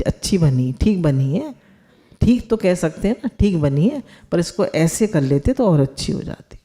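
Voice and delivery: kind, encouraging verdict first; gentle feedback. Shown as a demonstration. Advising the cook on the vegetables, gently encouraging. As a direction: soften it with praise before the advice. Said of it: "तो बल्कि पहले ये बताइए".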